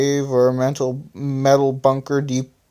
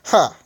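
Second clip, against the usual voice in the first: yell; 4 semitones higher than usual. Acted. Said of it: "yelled Electronic".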